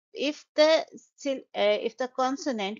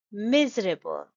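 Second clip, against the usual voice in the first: "miserable" with the opening MIS stressed; first-syllable stress. Shown as a demonstration. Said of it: "the stress is on the first syllable".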